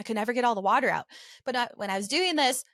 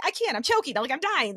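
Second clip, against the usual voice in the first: higher, mildly panicked protest; retold panic; 3 semitones higher than usual. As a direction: imitate yourself in a panic. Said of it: "panicking and having anxiety".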